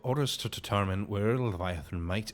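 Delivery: lightly voiced Irish officer, grave and earnest; a hint of an Irish commander, worried; Irish accent. Commander briefing on missing scouts, mild Irish accent. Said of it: "make you sound immediately more Irish".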